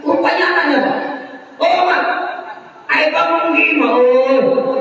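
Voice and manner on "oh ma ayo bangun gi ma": put-on high little baby voice; preacher voices baby calling mother, high; baby speaking. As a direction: voice the infant calling mother, higher. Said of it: "Anak Siti Masito ngomong".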